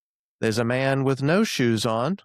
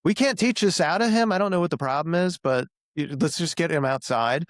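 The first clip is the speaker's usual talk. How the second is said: higher, fast, fed-up venting; exasperated parent; 5 semitones higher, faster than usual. Retold or imitated. Parent fed up with a son who barks like a dog, exasperated. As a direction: throw up your hands at the kid. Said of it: "And you're like".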